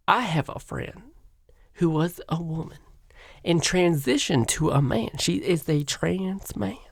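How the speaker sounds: mock Southern woman accent, a bit soft; put-on US Southern lilt; Dylan Mulvaney. Guest telling of a friend, mock Southern woman accent. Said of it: "a Southern woman accent".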